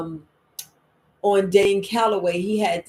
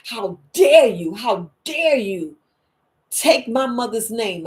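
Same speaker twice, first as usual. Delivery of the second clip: slow, deliberate how dare you; mildly voiced actress scolding her daughter; indignant rebuke; 4 dB louder, slower than usual. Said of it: "She was like".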